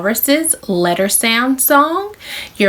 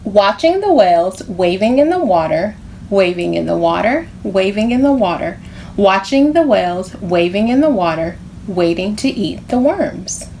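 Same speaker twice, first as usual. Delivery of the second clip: read aloud. Shown as a demonstration. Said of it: "I'm gonna read it to you".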